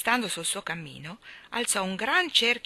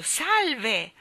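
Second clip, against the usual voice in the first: raised, higher greeting call; echoed cry; 6 semitones higher, 4 dB louder than usual. A narrator's reading. The star spectators echo Orione's salute, crying out. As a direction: send the hail echoing back. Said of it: "echeggiò il grido".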